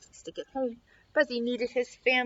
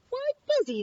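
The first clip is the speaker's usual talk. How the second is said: parents' voice; 13 semitones higher, 3 dB louder than usual. Acted. Parents reply.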